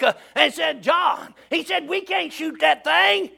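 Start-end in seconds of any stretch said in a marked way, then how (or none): 0.8-1.3 raised call up to a friend; acted storyteller's shout; retold holler back. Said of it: "Jerry hollered back". 1.9-3.3 high, slow call up the tree; storyteller's raised voice for a hollering friend; retold holler back. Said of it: "Jerry hollered back".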